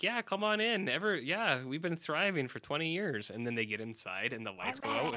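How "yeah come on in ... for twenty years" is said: high, eager welcome over an intercom; hammed-up cheery cult greeter, high and a bit loud; fake-friendly cultists. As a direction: lure them in with a chirpy high invite. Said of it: "They're like".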